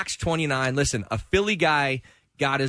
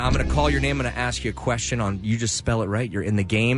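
upbeat game show host patter; smooth, savory host delivery. Acted. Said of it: "my sweet and savory game show host voice".

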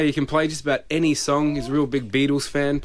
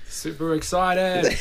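flat, slow deadpan; monotone; 4 semitones higher, much slower than usual. Real, not acted. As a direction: say it with no excitement at all. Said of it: "That couldn't have sounded any more monotone".

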